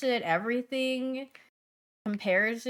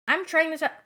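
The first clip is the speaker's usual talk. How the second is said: higher and louder, mocking "trying"; influencer script line; 8 semitones higher, 6 dB louder, faster than usual. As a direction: parody a food influencer's opener. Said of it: "my favorite script is when they say".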